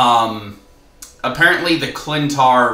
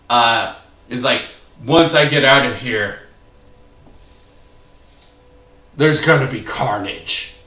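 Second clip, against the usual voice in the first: evil voice. Acted. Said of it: "doing the evil voice for, um, the review".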